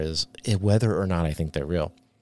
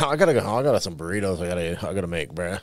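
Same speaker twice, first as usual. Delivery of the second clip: put-on surfer boy voice; faster than usual. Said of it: "You busted the surfer boy voice out".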